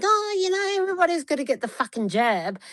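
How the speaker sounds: quoting the best friend who pushed the jab, high and fast in mockery; mocking the friend. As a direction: rattle it off like a know-it-all. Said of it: "and she's like".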